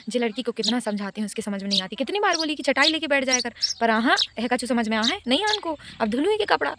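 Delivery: a light take on mom's village scolding; imitating scolding mom. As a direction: mildly mimic mom nagging in dialect. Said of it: "ऐसा बोलती है मेरी mummy".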